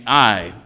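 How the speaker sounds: "I" said loud as the whole point; emphatic I. Shown as a demonstration. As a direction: lean hard on the single word "I". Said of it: "it's emphatic".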